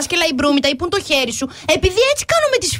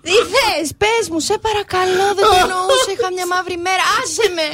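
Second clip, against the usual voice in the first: retold tearful plea; 5 semitones higher than usual. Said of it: "να λέω".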